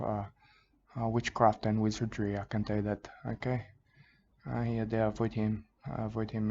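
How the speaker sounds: a croc-hunter parody crooning soothing nonsense; mock Australian wildlife host. Parody host soothing viewers while chasing a tiger shark, in a mock Australian accent.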